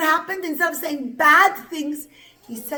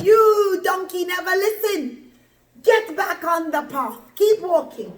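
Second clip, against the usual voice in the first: cross scolding; 5 semitones higher, 4 dB louder than usual. Acted. Bilam hits and scolds donkey.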